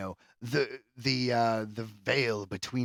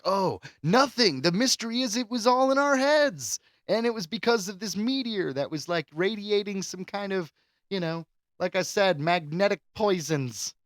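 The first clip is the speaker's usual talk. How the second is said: high, breezy dismissive quote; a higher, hammed-up character brushing it off; mock movie ending; 7 semitones higher than usual. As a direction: send up the lazy twist. Mocking a cheap movie ending.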